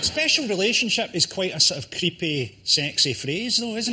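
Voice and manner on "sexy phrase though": normal talking voice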